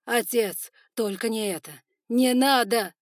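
loud high pleading shout; desperate plea. Acted. Son pleading with his father, loud desperate shout. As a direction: beg with everything.

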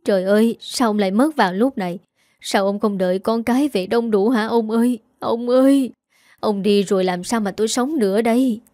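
lightly voiced fake wailing widow; a hint of put-on crying over the coffin; mock wailing. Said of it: "Bà ta gào khóc". (giả vờ gào khóc nhẹ nhàng)

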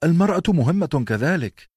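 put-on high, loud girl's objection; protesting cry. A narrator's reading. Arya objects to her brother, crying out loud and high. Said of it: "صاحت آريا معترضة".

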